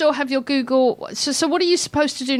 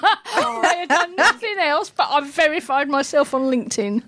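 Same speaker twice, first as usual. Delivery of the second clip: laughing; 3 semitones higher than usual. Real, not acted. Laughing self-mockery.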